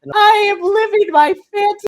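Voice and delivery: high, loud squeal of delight; giddy fan exclamation; elated outburst. Real, not acted. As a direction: belt it out high, utterly thrilled. Gushing over dream matches.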